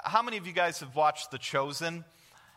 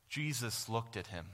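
emotional; 3 semitones lower than usual. Real, not acted. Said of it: "without getting emotional".

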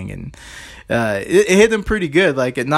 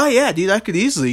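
boastful guard; 8 semitones higher than usual. Retold or imitated. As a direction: brag like a proud young guard. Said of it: "He's like".

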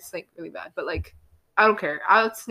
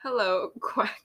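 whisper; 5 dB quieter, slower than usual. Pretend. Tries the quack line softly.

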